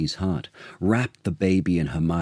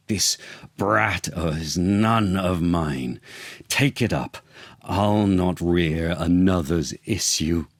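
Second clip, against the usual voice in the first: mock yell. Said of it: "he yelled".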